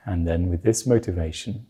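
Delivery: calm, measured meditation guidance with long pauses; guided meditation. Real, not acted. Teacher settling listeners before they meditate on the root mind, guided meditation. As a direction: ease listeners into stillness, leaving space between phrases.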